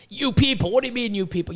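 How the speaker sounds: mock Don Cherry quote. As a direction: toss off a hint of Don Cherry's outrage. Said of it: "Don Cherry got fired for that".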